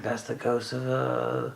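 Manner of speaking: lightly voiced big-haired Texas bride; Texas accent. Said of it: "I don't know why I'm doing this accent".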